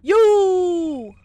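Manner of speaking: high sudden yell; shout. Acted. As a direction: point and yell.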